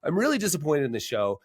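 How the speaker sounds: high, mock-upset complaint; a hint of a grumpy comedian whining; upset guest. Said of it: "he was like".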